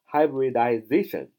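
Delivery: "hybridization" with zation given the main beat; stress on zation. Shown as a demonstration. Teacher repeats the word after explaining its accent, stress on zation. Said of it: "重音在zation那儿".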